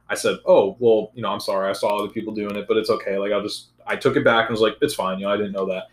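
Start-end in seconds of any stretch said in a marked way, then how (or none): 0.5-3.7 low-pitched, casual, easygoing apology; mild apology. Retold or imitated. Student retelling an apology to his math teacher, mild and low-key. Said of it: "I literally said this in the ex-, this exact same tone". 4.8-5.8 low, casual reassurance; mild apology. Retold or imitated. Student retelling his answer to the math teacher, mild and low-key. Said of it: "this exact same tone".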